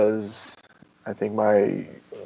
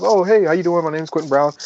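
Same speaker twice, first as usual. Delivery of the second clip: eager greeting; 5 semitones higher, 4 dB louder, faster than usual. Retold or imitated. Retold eager self-introduction.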